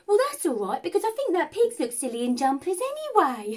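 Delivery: bright chirpy reply; cheerful date brushing off the news. Retold or imitated. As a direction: shrug it off brightly.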